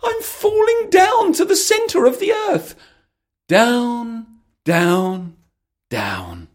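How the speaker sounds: high, loud falling cry; a girl shrieking as she plunges; falling scream. Acted. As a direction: wail it as you drop down the hole. Alice falling down the hole.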